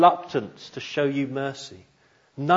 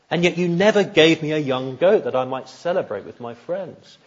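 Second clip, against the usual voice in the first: bitter complaint; 4 semitones higher, 3 dB louder than usual. Retold or imitated. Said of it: "you can hear the anger and the bitterness and the resentment".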